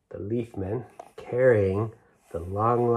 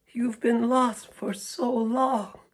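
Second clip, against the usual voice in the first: put-on high, slow old woman's voice; lightly voiced old woman; 13 semitones higher, slower than usual. Old woman speaking to her long-lost toy, high and slow. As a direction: marvel gently, slowly. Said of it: "she whispered".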